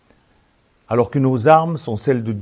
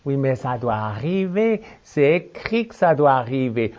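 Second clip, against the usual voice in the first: mocking objector. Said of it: "certains vont se contenter de dire".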